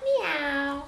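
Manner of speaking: drawn-out meow, gently playful; cat meow. Shown as a demonstration. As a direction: mimic a cat for a toddler. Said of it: "What's kitty cat say?".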